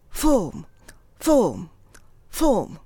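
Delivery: 'フォーム' as English 'form', starting on a puffed F. Shown as a demonstration. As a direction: bite the lip lightly to begin 'フォーム'. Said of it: "下の唇を上の歯で少し噛んで". (「フォーム」を息を吹き出す英語のFで)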